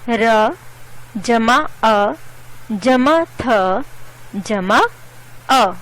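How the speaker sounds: र, अ, थ, अ each said as its own sound; sound-by-sound breakdown. Shown as a demonstration. Teacher spelling a word by sounds, र, अ, थ, अ spaced out. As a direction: pause between sounds: र जमा अ जमा थ जमा अ. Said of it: "कई ध्वनियों से मिल से बने हैं".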